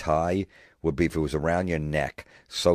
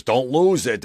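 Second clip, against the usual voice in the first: mock sage advice; 8 semitones higher, 6 dB louder than usual. Quoting the commenter.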